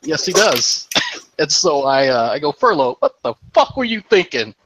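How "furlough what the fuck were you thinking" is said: mock-angry scolding, pitched up; retold berating. Medic berating a soldier who flipped the vehicle, retold scolding. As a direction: lay into him, half in fun. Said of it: "don't berate them in front of".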